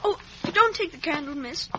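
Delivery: a pleading, tearful cry; a scared boy's whimpering plea; frightened plea. Acted. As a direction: beg her not to leave you in the dark. Boy frightened left in the dark.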